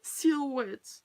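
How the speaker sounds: "Silhouette" pronounced in French; French accent. Shown as a demonstration. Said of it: "We'll say it with a French accent".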